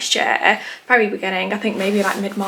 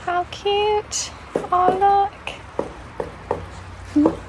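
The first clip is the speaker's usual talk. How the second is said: delighted; 9 semitones higher, slower than usual. Real, not acted. Cooing at trees.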